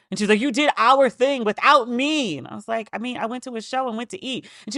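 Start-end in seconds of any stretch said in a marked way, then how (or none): 0.4-2.4 hurt mother. Retold or imitated. Mother scolding in retold story. 2.9-4.5 sheepish excuse. Retold or imitated.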